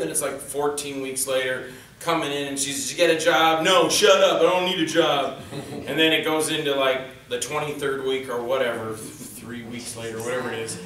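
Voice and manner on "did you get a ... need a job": louder, snappy mock couple's quarrel; acted bickering. Married couple bickering over a job, mock snappy. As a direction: play both sides of a domestic spat. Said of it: "they're arguing and fighting".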